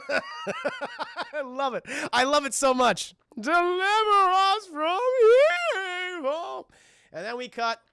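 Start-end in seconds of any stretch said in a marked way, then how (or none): 3.4-6.7 laughing prayer quote. Retold or imitated.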